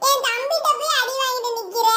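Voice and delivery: high mocking child laughing; laughing taunt. Kid laughing at cousin beaten by his brother, taunting high. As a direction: tease him through laughter.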